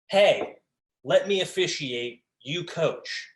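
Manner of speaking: mock-curt official shutting the coach down; dismissive official. Official dismissing the coach with a curt brush-off.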